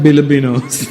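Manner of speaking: "Filipinos" with B in place of F and P; mock mispronunciation. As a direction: say "Filipinos" as "Bilibinos". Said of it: "For the what?".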